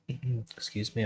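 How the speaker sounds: talking through hiccups; hiccuping between words. Real, not acted. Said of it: "I've got the hiccups".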